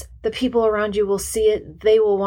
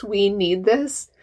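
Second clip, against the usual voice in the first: whispered agreement; 2 semitones higher, slower than usual. Retold or imitated. Listener's eager agreement.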